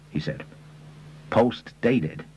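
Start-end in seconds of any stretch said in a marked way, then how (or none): 1.3-2.2 mildly puzzled query, slightly raised; a touch of bafflement. A narrator's reading. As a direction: question it as an unfamiliar term. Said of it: "Mister Lomer was puzzled".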